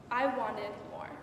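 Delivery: soft, spaced-out closing lines; fading echo. Acted. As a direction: let each sentence die away after a long pause.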